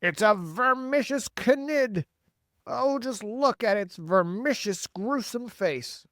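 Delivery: high, slow cry of horror; horrified cry. A narrator's reading. Police chief staring at Miss Spider's face, crying in horror. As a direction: cry out, appalled by the sight. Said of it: "cried the chief of police".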